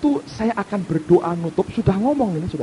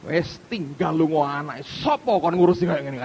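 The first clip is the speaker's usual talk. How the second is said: put-on sulky child. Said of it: "kan gitu, saudara".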